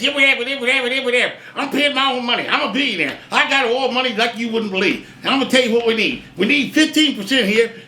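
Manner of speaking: hammed-up Perot, only slightly put on; Ross Perot impression. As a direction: lightly mimic a folksy billionaire pitching his chart. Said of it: "and he talked like this".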